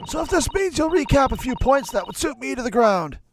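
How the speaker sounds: high, loud juror's voice; hard-of-hearing juror. Acted.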